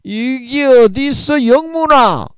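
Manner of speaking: angry scolding. Retold or imitated. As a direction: roar at the cheeky younger one. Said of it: "화가 나셔가지고". (화가 나서 영문이에게 높고 크게 호통치는 형님)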